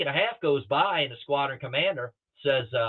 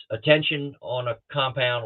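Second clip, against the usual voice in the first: PA announcement. Retold or imitated. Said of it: "comes over the P A system and says".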